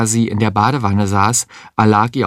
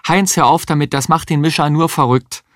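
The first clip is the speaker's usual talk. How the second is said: higher-pitched, exasperated telling-off; scolding protest; 5 semitones higher than usual. Acted. Frau Kuppisch telling Heinz to stop, scolding. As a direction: tell him off to make him stop.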